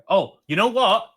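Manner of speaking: real excitement, as if an idea just struck; really excited. Real, not acted. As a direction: jump in excitedly, voice lifting. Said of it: "You sounded really excited there".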